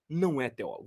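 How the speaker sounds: hushed imitation of his scorn; quiet mock contempt. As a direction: drop it quietly but dismissively. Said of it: "olha como é que ele falou".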